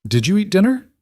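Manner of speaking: put-on high, curious child's question; a six-year-old checking on her dad; lightly voiced little girl. Little girl on the phone asks her father about dinner, curious.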